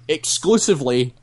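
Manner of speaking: EXCLUSIVELY picked out with slight emphasis; stress on EXCLUSIVELY. Retold or imitated. Friend relaying what a girl told the society, EXCLUSIVELY emphasised. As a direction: highlight the word "exclusively". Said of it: "highlighting the word exclusively".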